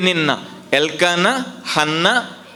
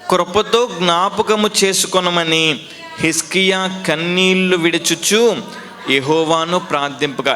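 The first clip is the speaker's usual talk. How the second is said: solemn scripture reading. Acted. Reads scripture verse aloud.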